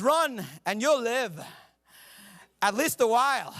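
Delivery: slow, half-hearted mock accent; a botched attempt at a mixed accent; hammed-up Braveheart line in a failed accent; bad mock accent. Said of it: "That sounded a lot more convincing in my head".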